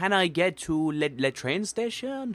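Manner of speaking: slow, high, put-on French-flavoured accent on English words. Recalling asking for the train station, the speaker slips into a put-on french accent. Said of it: "I like put on like a French version of an English accent".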